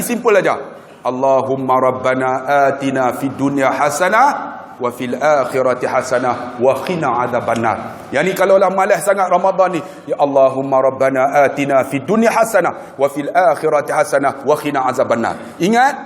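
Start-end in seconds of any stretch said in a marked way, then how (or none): 1.1-8.1 measured Arabic recitation; teaching the short prayer, measured recitation. Acted. 10.0-15.5 measured Arabic recitation; teaching the short prayer, measured recitation. Acted.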